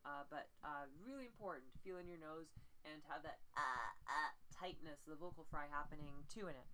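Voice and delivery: normal talking voice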